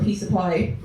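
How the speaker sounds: lightly imitated Irish accent on "piece of pie". Irish date inviting her over for pie, imitated Irish accent. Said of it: "and he was Irish".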